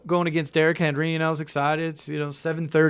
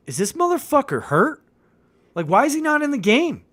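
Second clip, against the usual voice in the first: higher, louder retold yell at the screen; 11 semitones higher, 5 dB louder than usual. Up early alone with the puppy, yelling at the football game on TV. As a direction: bark it at the TV like a frustrated fan. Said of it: "I yelled to the T V".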